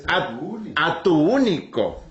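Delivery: slow, stretched divine reply; deliberate, drawn-out voice of God; God specifying. Acted. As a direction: answer as God, drawing out the key word. Acts God narrowing the command.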